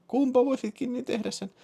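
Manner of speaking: very high falsetto woman's voice; woman caller. Acted. (naisääni korkeassa falsetissa)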